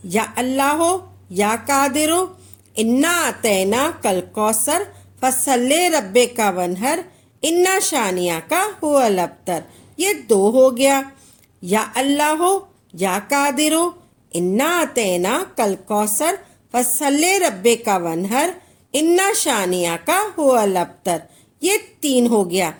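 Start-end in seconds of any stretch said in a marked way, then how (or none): 0.1-9.6 measured devotional recitation, each phrase rising at the end; reciting prayer. Shown as a demonstration. Teacher demonstrates the first of ten recitations, in a devotional chant. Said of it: "आपने ऐसे पढ़ना है". 11.6-21.2 measured devotional recitation, each phrase rising at the end; reciting prayer. Shown as a demonstration. Teacher demonstrates the first of ten recitations, in a devotional chant. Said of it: "आपने ऐसे पढ़ना है".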